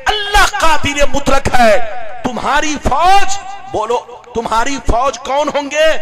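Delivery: loud, rising sermon cadence; a preacher roaring God's power to the crowd; fiery preaching. Acted. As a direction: drive it home to the congregation. Preaching at full force.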